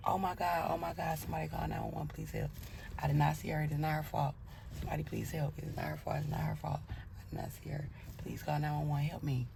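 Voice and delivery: hushed, frantic pleading; panicked pleading. Retold or imitated. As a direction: beg for help in a hush. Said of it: "all I remember the lady saying was".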